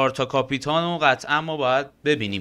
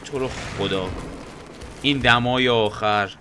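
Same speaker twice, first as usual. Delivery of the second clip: mock pleading; 4 semitones lower than usual. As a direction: plead humbly with the boss. Begging the enemy.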